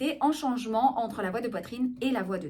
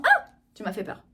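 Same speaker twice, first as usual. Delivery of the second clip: acted little gasp of fright, louder on the cry; startled head voice; 3 semitones lower, 5 dB louder than usual. Shown as a demonstration. Coach showing someone caught by surprise, startled head voice. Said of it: "Aussi, quand on vous surprend".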